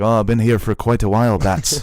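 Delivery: put-on a mild, half-hearted Irish accent; a hint of Irish accent. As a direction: toss off a light Irish lilt. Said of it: "you don't have to do the accent".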